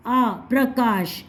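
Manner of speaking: प्रकाश said slowly with a long aa in the middle; slow model pronunciation. Shown as a demonstration. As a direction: stretch the aa, then give प्रकाश whole and slow. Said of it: "अब ये बोलो प्रकाश". (प्रकाश धीरे, लंबे आ के साथ)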